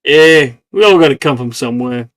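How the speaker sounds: raspy New Yorker plant voice; smoker's voice. Acted. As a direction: talk like a smoker from New York. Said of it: "You sound like a smoker".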